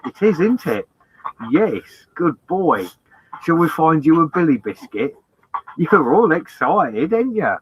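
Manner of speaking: high, sing-song voice for the dog; dog talk. Real, not acted. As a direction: coo at the dog like a pet owner. Talking to his excited dog Billy.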